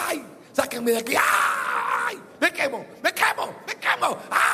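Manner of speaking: gritos desesperados del rico en el infierno; grito de tormento. Acted. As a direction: clama como quien se quema. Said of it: "como gritó aquel rico que cayó en el infierno y gritaba". (grito de dolor del rico condenado)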